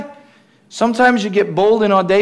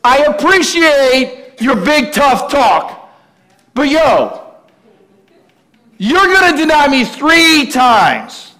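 lightly voiced, higher and slower; Jesus gently challenging; 6 semitones higher, slower than usual. Jesus tells Peter he will deny him, in a mild streetwise voice. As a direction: let him down calmly but firmly. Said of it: "And he says".

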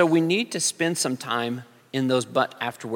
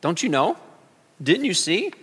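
mock urgent plea; 5 semitones higher, slower than usual. Preacher voicing the church shaking the Lord awake, mock urgent. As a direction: shake him awake with mounting urgency. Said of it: "we want to shake the Lord and say".

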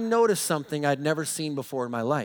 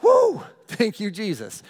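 much higher, louder joyful woo; relieved whoop; 4 semitones higher, 6 dB louder than usual. Retold or imitated. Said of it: "you're like".

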